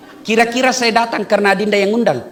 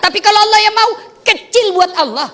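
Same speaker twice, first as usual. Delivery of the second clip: emphatic preaching; 10 semitones higher, 3 dB louder than usual. Real, not acted. Preacher climax on Allah's power.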